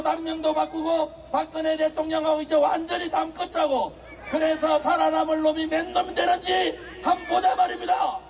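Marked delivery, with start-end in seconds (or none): 4.3-8.2 fiery rally speech. Acted.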